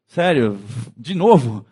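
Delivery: mock exasperation. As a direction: roll your eyes at a friend who's down again. Amigo exasperado com o outro. (espanto exasperado de brincadeira)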